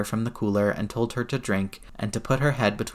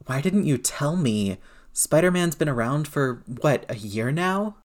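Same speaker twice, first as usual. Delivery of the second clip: upset, raised voice; 4 semitones higher than usual. Acted. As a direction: demand an answer, rising in pitch. May confronts Peter, upset.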